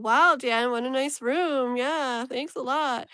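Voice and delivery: slow, mock-sarcastic praise; sarcastic joking. Friends mocking the hotel room with slow sarcasm. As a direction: tease Dan about the room, dragging it out. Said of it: "we were joking".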